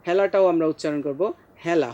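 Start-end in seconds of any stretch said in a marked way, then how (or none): 1.6-1.9 হেলা as hyala, with ae; open-vowel pronunciation. Shown as a demonstration. Teacher gives a similar word, open ae. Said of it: "হ জ ফলা আকার দিয়ে".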